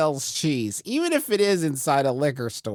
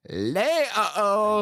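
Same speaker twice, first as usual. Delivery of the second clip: put-on slow, high French-accented uh-oh; 8 semitones higher, much slower than usual. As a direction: stretch it out in mock French. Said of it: "you hear from the back".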